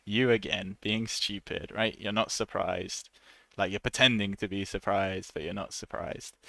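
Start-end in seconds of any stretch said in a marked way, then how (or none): 0.0-1.7 sarcastic. Shown as a demonstration. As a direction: pretend to be surprised, mocking. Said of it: "people use it more sarcastically".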